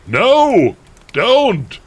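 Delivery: high, loud, desperate plea; begging. A narrator's reading. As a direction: beg in melodramatic cries. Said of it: "we begged".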